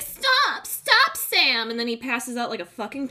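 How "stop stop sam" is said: high, loud yell of stop; mock panicked Frodo shout. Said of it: "He's like".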